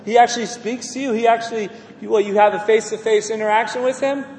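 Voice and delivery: acted disbelieving questions, punched out; mock incredulity. Mimics mockers who laugh at believers.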